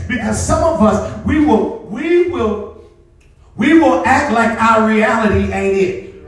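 emphatic preaching with stretched-out key words. Real, not acted. Pastor telling congregation about facing their reality, emphatic preaching. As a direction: drive each phrase home to the congregation. Preaches the point after the story.

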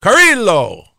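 "Carrillo" loud and high, ka-REE-lo with an English r; compromise pronunciation. Shown as a demonstration. Host offers a middle way, loud ka-REE-lo. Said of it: "How does about we compromise?".

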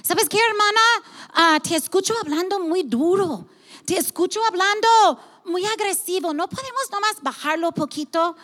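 gentle correction. Retold or imitated. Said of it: "he tenido que ir con alguien y decir".

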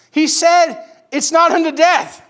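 high, loud, slow and emphatic; excited proclamation. Acted. Servants bringing the Lord's word back, excited proclamation. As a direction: proclaim good news to the whole room, drawn out. Messengers proclaim the good news.

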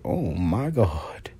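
whispered gasp of awe, soft and low; breathless whisper. Retold or imitated. Meeting a tall man, breathless whisper. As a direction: breathe it out, starstruck. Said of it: "It's like".

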